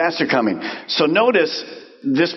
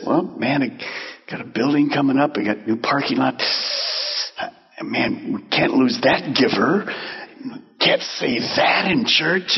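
timid pastor; 2 semitones lower, 3 dB quieter than usual. Pretend. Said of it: "he just says".

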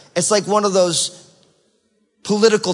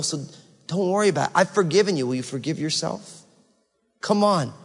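soft, sincere comfort that fades almost to nothing; tender shepherd voice; 3 semitones lower, 3 dB quieter, faster than usual. Retold or imitated. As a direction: lower and softer, gentle reassurance. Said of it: "the voice of your shepherd".

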